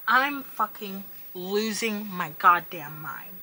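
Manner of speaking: slow, strained harsh whisper. Real, not acted. Vlogger venting to camera, slow strained whisper. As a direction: spit it out in a tight whisper.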